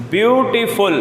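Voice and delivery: ब्यूटीफुल with each of ब्यू, टी, फुल set apart; syllable-by-syllable. Shown as a demonstration. Teacher asks pupils to try saying it, syllable-by-syllable. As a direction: lightly separate the three beats of ब्यूटीफुल. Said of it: "आप खुद बोल के देखिए".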